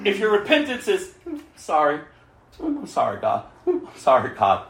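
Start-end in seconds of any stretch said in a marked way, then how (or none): 1.6-4.7 mock half-hearted apology. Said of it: "that's not repentance".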